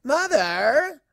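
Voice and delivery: whiny mortified cry of Mother; a daughter cringing at her parent; embarrassed teen daughter. Acted. Daughter mortified by her mother, whiny cry.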